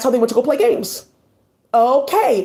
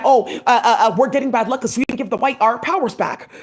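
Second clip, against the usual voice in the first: mocking quote with laughter. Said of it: "saying that".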